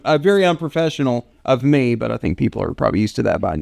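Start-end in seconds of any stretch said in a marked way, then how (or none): 0.0-1.9 mint in the mouth; talking around a mint; strong mint. Real, not acted. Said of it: "I put a mint in my mouth".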